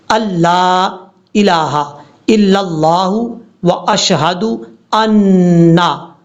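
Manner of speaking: slow Arabic recitation, each word drawn out. Shown as a demonstration. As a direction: recite the words of the prayer carefully. Recites tashahhud slowly. (धीमी अरबी तिलावत)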